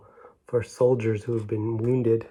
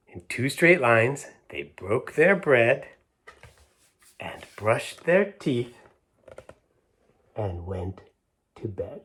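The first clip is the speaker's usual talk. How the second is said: storybook reading; slower than usual. A narrator's reading. Storyteller reads the rhyme to children, slow and gentle. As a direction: read it like a bedtime verse. Reads the book text aloud.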